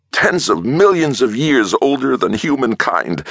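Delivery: high, slow, relishing each word; anticipation. A narrator's reading. Scientist relishing the old ones' age, high and hungry. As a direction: savour it like a treat. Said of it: "almost smacking his lips with anticipation".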